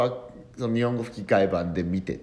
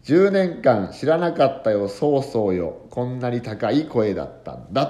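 tanka recital. Shown as a demonstration. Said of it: "短歌をもう一度読み上げます".

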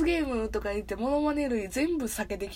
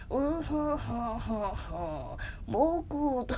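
attempted cartoon robot-cat chuckle; Doraemon; much slower than usual. Streamer trying an older cartoon voice, lightly imitated. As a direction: stretch out a slow character chuckle. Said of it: "ドラえもんの声どっかな".

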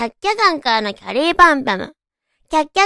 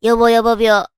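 louder retry; 2 semitones lower, 5 dB louder than usual. Shown as a demonstration. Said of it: "何これ？".

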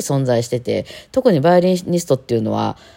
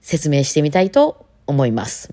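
slow, over-formal recital introduction; mock the polished concert host; lightly hammed-up politeness for an audience; stilted stage greeting; 2 semitones higher, slower than usual. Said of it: "なんであんな喋り方するんですかね".

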